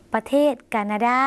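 แคนาดา with a hard, unaspirated first k; Lao pronunciation. Shown as a demonstration. Teacher modelling a Lao country name for viewers, Lao pronunciation. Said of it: "หมายถึง".

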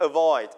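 Avoid with a light a- and a strong, falling void; stress on second syllable. Shown as a demonstration. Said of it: "เน้นที่พยางค์ที่สองครับว่า void".

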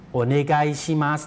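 "โอเนไกชิมัส" joined up, with merged "ไก" and final "มัส"; run together. Shown as a demonstration. Teacher puts the phrase together for viewers, run-together "โอเนไกชิมัส". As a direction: say "โอเนไกชิมัส" whole, no gaps between syllables. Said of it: "ออกเสียงรวบยาวนะครับ".

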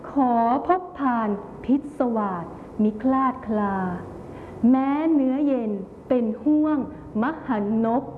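measured love-poem recital with long pauses; loving tone. Shown as a demonstration. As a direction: recite as a vow of love, phrase by phrase. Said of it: "บทที่มีน้ำเสียงความรักซ่อนอยู่". (อ่านกลอนด้วยน้ำเสียงความรัก)

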